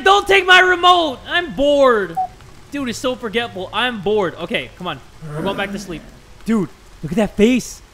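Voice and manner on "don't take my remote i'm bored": high, loud mocking kid whine; exaggerated bratty kid impression; mimicking the child. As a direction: mimic a whining child, loudly. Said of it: "He's like".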